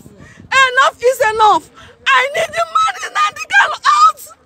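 sobbing, shouting high and breaking; crying shout. Real, not acted. Woman at a rally crying out for her leader's release. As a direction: cry out in real anguish for him.

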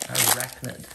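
"Arachnid" in a light Greek accent. Shown as a demonstration. Telling viewers how the Greek word sounds, "Arachnid" in a Greek accent. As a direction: say "Arachnid" the way a Greek speaker would. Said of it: "If you say it with an accent".

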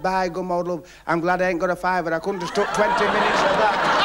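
put-on chirpy punchline from the kid; cheeky lad. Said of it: "he said".

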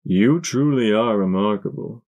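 softly spoken stallion; soft villain. Acted. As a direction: praise softly. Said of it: "he said softly".

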